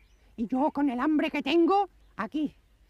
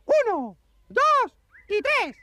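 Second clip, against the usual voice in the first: count-in; 4 semitones higher, much slower than usual. Acted. Count-in for the song.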